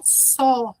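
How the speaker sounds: "saw" with a long open O vowel; pronounced with O. Shown as a demonstration. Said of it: "Pronúncia com O".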